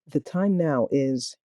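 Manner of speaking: slow, evenly spaced words; slow clock readout. Shown as a demonstration. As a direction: read it like a talking clock. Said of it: "Here's what it's gonna sound like".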